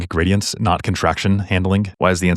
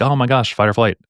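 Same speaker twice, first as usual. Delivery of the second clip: higher-pitched mock alarm; mock panic; 4 semitones higher than usual. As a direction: play the adrenals in a light panic. Voices panicky adrenals in an explanation.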